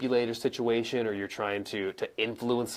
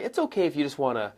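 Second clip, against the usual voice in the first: "wanna" left hanging before a pause; pause after wanna; 4 semitones higher, faster than usual. Shown as a demonstration. Coach showing an embedded command, pause after "wanna". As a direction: lead up to "wanna", then stop. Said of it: "and I maybe pause".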